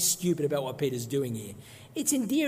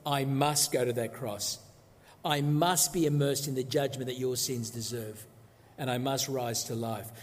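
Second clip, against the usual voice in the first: a resolved Jesus weighing must; emphatic must; 4 semitones lower than usual. Retold or imitated. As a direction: lean on each must, grave. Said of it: "you notice, are emphatic".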